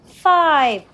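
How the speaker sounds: loud, high, falling storybook scream. A narrator's reading. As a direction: cry it out long and loud. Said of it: "screamed the fifth brother".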